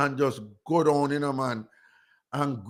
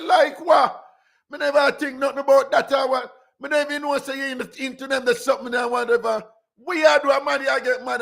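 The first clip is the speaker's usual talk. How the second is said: indignant retort; 8 semitones higher, 3 dB louder than usual. Retold or imitated. Woman arguing back at friend.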